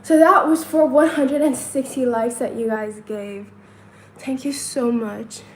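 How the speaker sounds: breathless after counting; out of breath. Real, not acted. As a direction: talk while catching breath. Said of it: "I'm trying to catch my breath".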